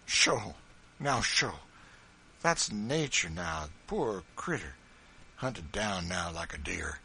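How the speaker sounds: big man softened by her story; rustic farmer, touched and indignant; moved old farmer. Acted. John moved by Eliza's story.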